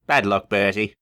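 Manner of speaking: smug little grin; grinning. Acted. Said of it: "grinned Thomas".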